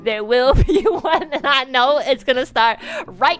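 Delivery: frantic prediction. Retold or imitated. Rushing, sure of more turbulence.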